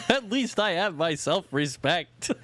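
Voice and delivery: high, slow cartoon voice; cartoon character quote. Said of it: "I love that from Futurama".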